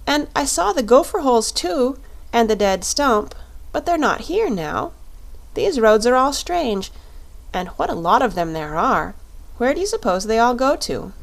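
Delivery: put-on a young girl wondering aloud where everything went; little girl Dorothy. Dorothy asks the Shaggy Man about the roads, lightly voiced girl.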